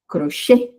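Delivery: "crochê" with the weight on final CHÊ; last syllable stressed. Shown as a demonstration. Teacher showing oxytone words, final CHÊ of "crochê" stressed. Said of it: "quando é a última mais forte".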